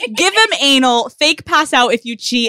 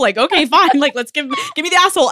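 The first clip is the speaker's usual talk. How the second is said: higher, louder laughing imitation of the boyfriend; laughing mock boyfriend; 4 semitones higher, 4 dB louder, faster than usual. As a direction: laugh through his baffled yes. Voicing boyfriend's reaction, laughing.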